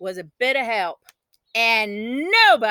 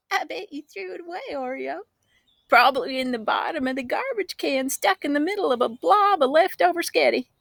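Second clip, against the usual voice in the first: taunting sister; 4 semitones higher than usual. A narrator's reading. Sister taunting the girl about the tooth. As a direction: needle her playfully.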